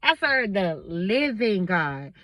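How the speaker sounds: slow, weighted "living God"; emphasis on living. Real, not acted. Telling listeners whom she serves, emphatic slow "living". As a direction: draw out "living" deliberately. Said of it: "I gotta put emphasis on that".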